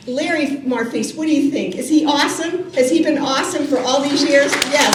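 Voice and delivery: teasing hype for the retiring administrator; rallying the crowd. Real, not acted. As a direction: whip up the audience for Larry. President rallying crowd about Larry.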